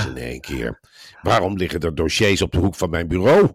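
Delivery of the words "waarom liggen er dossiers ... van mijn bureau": mock boss suddenly raising the voice; stemverheffing. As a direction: imitate an irritated boss demanding an answer, rising at the end. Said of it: "en dan ging die stem omhoog". (nagedane bazige stemverheffing)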